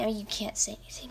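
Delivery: a quick quiet aside to yourself; quick mumble. Real, not acted. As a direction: toss it off under your breath. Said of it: "What's wrong with me?".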